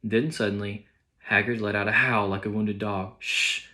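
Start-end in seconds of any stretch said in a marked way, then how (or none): 3.2-3.7 sharp hissed shh; hissed shush. Acted. McGonagall hushing Hagrid before he wakes the Muggles, hissed. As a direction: hush him fast with a hiss. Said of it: "hissed Professor McGonagall".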